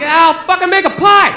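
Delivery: panicked blurt. Retold or imitated. Cornered boyfriend promising his girlfriend anything, mock panic. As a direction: blurt it out to escape the pressure. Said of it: "So I panicked".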